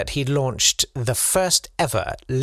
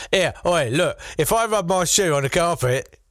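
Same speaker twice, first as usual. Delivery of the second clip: hammed-up, higher mock Massachusetts settler accent; "authentic" old Massachusetts accent; 5 semitones higher than usual. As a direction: overdo a supposedly authentic early Massachusetts accent. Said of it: "so that's authentic now".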